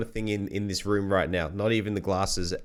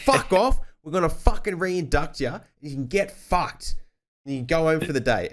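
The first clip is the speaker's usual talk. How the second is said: furious foreman; 8 semitones higher than usual. Retold or imitated. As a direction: blast him off the site like the raging foreman. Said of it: "he just lost his shit".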